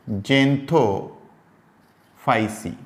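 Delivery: very slow, each syllable of जेंथोफाइसी stretched; drawn-out syllables. Shown as a demonstration. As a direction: draw out जेंथोफाइसी syllable by syllable for students. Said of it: "teacher pronounces class name".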